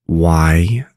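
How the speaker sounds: "Wyoming" broken into why, oh, ming; teacher spelling out the sounds of "Wyoming"; syllable-by-syllable Wyoming. Shown as a demonstration. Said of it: "You now know how to pronounce".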